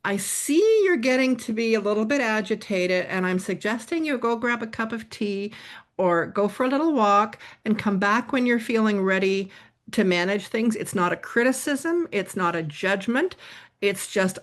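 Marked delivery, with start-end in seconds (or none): 0.0-10.8 gentle suggestion. Retold or imitated. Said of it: "what I'm saying is".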